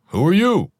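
high, sharp female voice; woman's voice. A narrator's reading. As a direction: voice the wife, wary. Woman challenging stranger, high voice.

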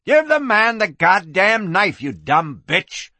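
high, angry yell; screeching. Acted. Madam yells at knife-wielder from doorway, screeching. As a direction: screech the order, dropping on the insult. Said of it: "Kitty screeched from the doorway".

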